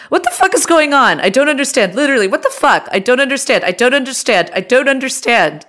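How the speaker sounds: high-pitched, distraught mock British woman; distraught British accent.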